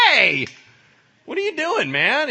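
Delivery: high, very loud yelp of objection; offended protest. Acted. Insulted disciple objects to Peter's boast, outraged yell.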